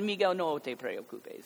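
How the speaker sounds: "Miguel, no te preocupes" said slowly and soothingly with a falling tune; calm a lost child slowly; gentle reassurance. Retold or imitated. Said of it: "So even the inflection was important".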